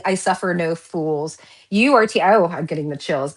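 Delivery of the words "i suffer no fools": slow, low and quiet, no-nonsense; mild stern mock pronouncement; stern voice of the card. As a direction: lay down the law softly and slowly.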